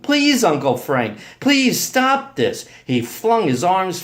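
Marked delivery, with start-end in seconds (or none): 0.0-2.7 drawn-out, raised cry of please; desperate, loud appeal; screamed plea. A narrator's reading. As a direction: beg him to stop, voice climbing. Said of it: "I screamed".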